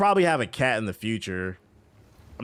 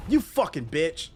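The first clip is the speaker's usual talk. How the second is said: drawn-out, higher-pitched curse; frustrated cursing; 6 semitones higher, slower than usual. Real, not acted. Streamer cursing at the game, real frustration. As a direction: stretch the insult out in exasperation.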